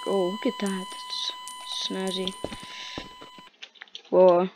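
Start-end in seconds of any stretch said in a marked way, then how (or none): 0.3-2.3 slow breathy whisper; hushed admiring whisper. Real, not acted. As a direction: whisper it slowly, impressed. Admiring something on screen.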